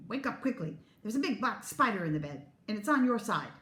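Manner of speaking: spook her sister with an urgent fake alarm; scary and urgent. Twin wakes her sister with a fake spider scare, mock urgent. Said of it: "making her voice scary and urgent".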